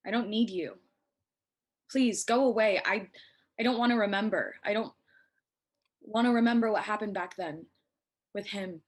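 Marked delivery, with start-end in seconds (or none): 1.9-8.8 louder, pained plea to leave; upset pleading. Acted. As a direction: push him away, hurting. Upset girl pushing visitor away.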